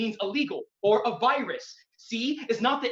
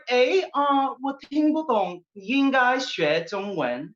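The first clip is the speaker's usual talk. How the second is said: mother replying in Chinese; 5 semitones higher, 4 dB louder, slower than usual. Retold or imitated. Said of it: "She replied".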